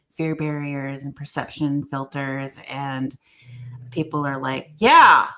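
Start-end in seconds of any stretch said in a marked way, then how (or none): 4.8-5.3 loud, high enthusiastic yeah; mock eager crowd. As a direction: cheer it like a crowd.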